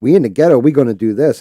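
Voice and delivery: imitating the caller. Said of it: "She literally said it that way".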